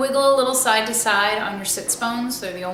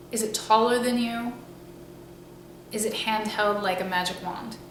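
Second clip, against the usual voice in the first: unhurried guided-meditation voice with long pauses; 5 dB quieter than usual. Acted. Teacher guiding listeners to imagine a staff from the sky, meditative. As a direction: ease them into the imagery, leaving space between phrases.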